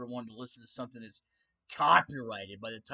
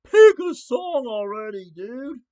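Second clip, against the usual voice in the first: lightly voiced impatient viewer, louder and higher; a hint of an annoyed viewer pushing him; mock-impatient loud nag; 10 semitones higher, 15 dB louder, slower than usual. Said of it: "you might be thinking".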